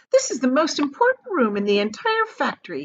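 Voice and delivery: lightly voiced eccentric showman; a touch of grand host; Wonka voice. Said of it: "he said".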